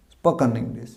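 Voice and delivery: "স্পোকেন" with a schwa in the last syllable; spo-kuhn for "স্পোকেন"; correct pronunciation. Shown as a demonstration. Teacher repeating the right form, reduced ending. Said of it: "উচ্চারণ কী হবে?".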